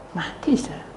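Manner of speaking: hushed whisper for a death. Acted. Preacher telling the congregation of the death, whispering. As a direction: drop to a breathless whisper.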